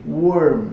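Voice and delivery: "Warm." with a clearly falling tune; falling intonation. Shown as a demonstration. Teacher models for students, "Warm." with a falling tune. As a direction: let "Warm." fall steeply. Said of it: "Essa entonação é bem decrescente".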